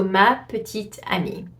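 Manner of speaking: amie with its final E silent; French pronunciation. Shown as a demonstration. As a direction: link petite into amie, no E at the end. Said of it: "you would not pronounce the E".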